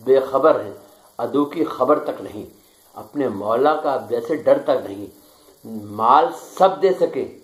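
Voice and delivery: measured, declaiming poetry recital; stately nazm recitation. Acted. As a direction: recite each line with weight. Poet recites his nazm. (پُروقار نظم خوانی)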